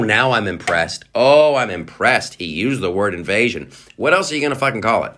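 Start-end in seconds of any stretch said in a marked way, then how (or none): 1.1-2.3 sarcastic. Acted.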